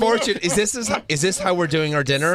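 high, bright delighted calling out; delighted greeting. Real, not acted. Cohost greeting the comedian caller delightedly.

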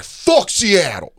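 slow, high, loud mock yell; imitated yell. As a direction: ham up the drunk fan bellowing at rivals. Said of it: "starts yelling at Seahawks fans".

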